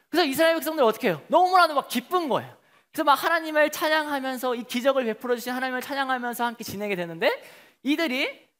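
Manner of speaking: ordinary delivery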